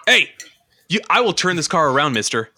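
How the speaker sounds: stern dad scolding the back seat; refereeing kids in car. Pretend. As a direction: play the fed-up dad driving. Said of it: "Come on, Dad, do some dadding".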